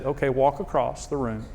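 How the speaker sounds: soft, hushed inner voice; quiet inner voice. Retold or imitated. Husband retells the Holy Spirit speaking, hushed and soft. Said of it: "he said".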